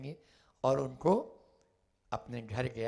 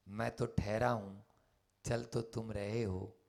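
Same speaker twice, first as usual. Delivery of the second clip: calm; 4 semitones lower, 5 dB quieter than usual. Acted. Buddha calmly restates his reply.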